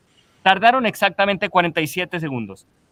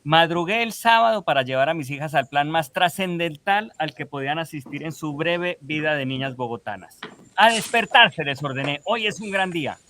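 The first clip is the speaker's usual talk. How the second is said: lectura enfática en voz alta; lectura de columna. Real, not acted. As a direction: read your satirical column aloud with emphasis. (lectura enfática de columna satírica)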